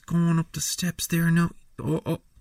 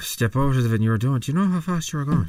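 traffic cop; 6 dB louder, faster than usual. Acted.

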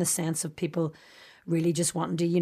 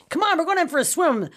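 high-pitched, hammed-up fake American accent; bad American accent; 10 semitones higher, 4 dB louder than usual. Girl determined to pass as a Yank, overdone American accent. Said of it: "determined to do the accent".

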